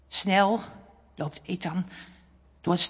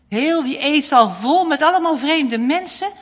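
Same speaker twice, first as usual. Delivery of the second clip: ordinary delivery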